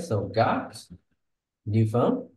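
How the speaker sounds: teacher modelling sentence stress; stressing content words. Shown as a demonstration. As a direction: hit got new phone one by one. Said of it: "So that's sentence stress".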